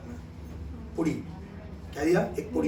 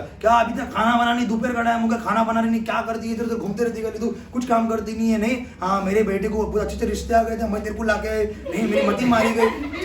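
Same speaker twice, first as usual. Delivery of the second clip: scolding mother-in-law; 4 semitones higher than usual. Retold or imitated. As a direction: nag her like an annoyed sas. Sas scolds bahu in kitchen.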